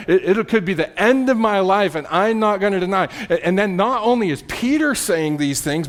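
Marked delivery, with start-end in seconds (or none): 0.1-3.1 mildly insistent pledge; emphatic. Acted. Peter insisting he will stay loyal to death, mildly emphatic. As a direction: keep insisting, a touch forceful. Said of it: "So Peter just emphatically".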